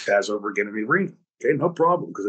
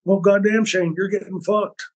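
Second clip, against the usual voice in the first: imitating Terry; 6 semitones higher than usual. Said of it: "He goes".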